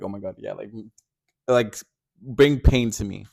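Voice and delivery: hammed-up voicing of a bottom's thrill; mock pleasure. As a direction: whisper it like a teasing moan. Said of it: "It's like".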